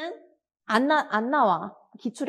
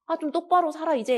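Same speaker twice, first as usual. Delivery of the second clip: scolding husband; 9 semitones higher than usual. Acted. Husband scolds wife leaving.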